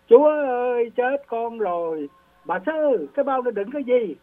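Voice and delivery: high panicked cry to God; hoảng hốt kêu. Retold or imitated. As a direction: yelp it, pitch jumping up. Tên cướp hoảng hốt kêu. (tên cướp hoảng hốt kêu lên giọng cao)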